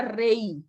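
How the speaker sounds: "rey" drawn out as one gliding syllable; reading without accent. Shown as a demonstration. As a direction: glide E into I in "rey". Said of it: "Aquí dijera".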